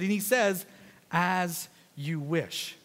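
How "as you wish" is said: slow and softer, sincere; heartfelt, no sarcasm. Acted. Young man to young woman, a heartfelt slow answer. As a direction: say as you wish slowly, meaning every word. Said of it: "with all heart, he really feels it".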